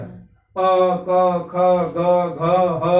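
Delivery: teacher demonstrating throat sounds; throat letters demo. Shown as a demonstration. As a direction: spell out अ, क, ख, ग, घ, ह slowly from the back of the throat. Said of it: "उच्चारण स्थान क्या हो गया".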